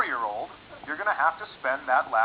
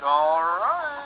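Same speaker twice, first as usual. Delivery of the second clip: confused sperm. Acted. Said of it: "My sperm would be all confused".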